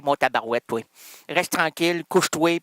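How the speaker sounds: usual speaking voice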